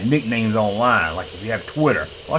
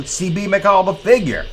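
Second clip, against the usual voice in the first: hyped announcement; 6 semitones higher than usual. Acted. Announcing star figure.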